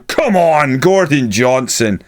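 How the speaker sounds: willing him on from the sofa; excited urging. Real, not acted. Urging striker on during attack.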